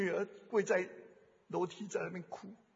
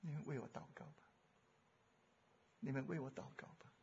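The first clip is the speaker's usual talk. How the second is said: pastor's plea; 4 semitones lower, 12 dB quieter, faster than usual. Retold or imitated. Pastor pleading before congregation.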